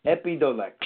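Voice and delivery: EPIDIOLEX said as eppy-DOE-lex; tentative pronunciation. Shown as a demonstration. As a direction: sound out EPIDIOLEX as ep-ee-doh-lex. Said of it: "it's harder to pronounce".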